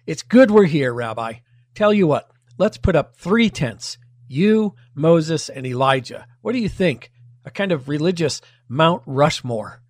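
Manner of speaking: chatty, mildly hammed-up proposal to the rabbi; eager Peter. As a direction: pitch a bright idea, casual and upbeat. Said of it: "it led Peter to a great idea".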